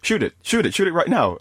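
lightly voiced singer egging on; imitating a singer. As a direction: push him to shoot, mock urgent. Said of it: "a singer hands him the gun and goes".

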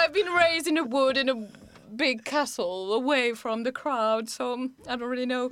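put-on unhurried talk with a Geordie-like accent. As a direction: explain vaguely in a Newcastle-style accent. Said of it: "I'm pretty sure you're a Geordie".

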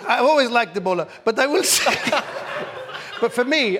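put-on Arabic accent, high and loud, laughing; laughing through a put-on Arabic accent. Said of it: "it's correct to speak in the Arabic accent".

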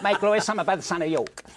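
slow, drawn-out theatrical Shakespeare; a rock singer. Acted. Comedian showing where he found the singer's voice, slow impression. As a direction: recite grandly in a rock singer's voice, lingering on words. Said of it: "I got his voice from that because he sort of did this".

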